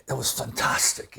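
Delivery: imitating an older Scottish gentleman's accent; thick Scottish accent. Touched Scottish fan praising the bassist, thick Scottish accent. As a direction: put on a thick Scottish brogue. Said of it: "in this really thick Scottish accent".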